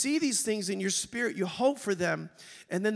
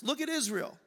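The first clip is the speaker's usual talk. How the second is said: higher, urgent; pleading complaint; 5 semitones higher than usual. Retold or imitated. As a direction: point out each nation to God one by one. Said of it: "Let's modernize this".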